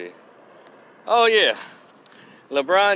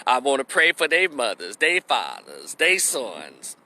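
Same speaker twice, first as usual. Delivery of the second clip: slow imitated prayer, dropping much lower; mock forgiving mourner; 4 semitones lower, slower than usual. Woman on TV praying for the killers' families, mock solemn. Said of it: "these black women get their ass on T V".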